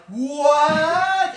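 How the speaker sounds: long, high, loud cry of shock; hammed-up terrified shriek; freaked-out shout. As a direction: yell it in disbelief. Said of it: "freaking out, like".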